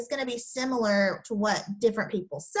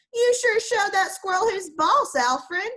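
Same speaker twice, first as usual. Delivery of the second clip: higher, admiring friend's voice; excited praise; 7 semitones higher, 5 dB louder than usual. Acted. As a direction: cheer your buddy on. Rex praising Alfred in story.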